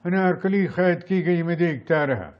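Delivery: lightly dramatic film hero; Dilip Kumar. Shown as a demonstration. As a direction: protest like a prince in a period film. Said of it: "Mughal Azam నుంచి ఒక scene చెప్పమన్నాడు పృథ్వీరాజ్ దిలీప్ కుమార్".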